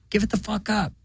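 put-on high, squeaky baby voice; babies talking. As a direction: voice the howling babies as cranky toddlers. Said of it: "They're like".

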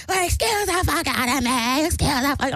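high, mocking put-on voice; mock an indignant man over and over; exaggerated indignant squawk; Skeletor impression. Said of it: "And he's like".

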